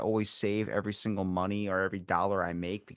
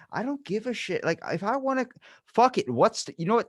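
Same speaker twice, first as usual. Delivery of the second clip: fed-up excitement; 7 semitones higher than usual. Retold or imitated. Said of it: "and I'm just like".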